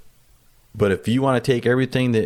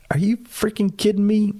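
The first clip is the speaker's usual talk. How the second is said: much higher, a disbelieving cry; incredulous outburst; 12 semitones higher than usual. Retold or imitated. Pilot venting to co-pilot, high incredulous cry. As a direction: let the disbelief fly up high. Venting in cockpit after the insult.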